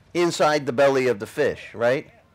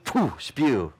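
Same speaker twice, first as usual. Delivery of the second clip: spitting spew sound. Shown as a demonstration. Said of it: "it's, um".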